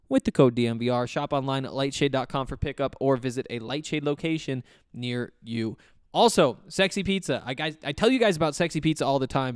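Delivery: upbeat podcast ad read. Acted. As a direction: sell it like a sponsor spot. Host reads sponsor ads.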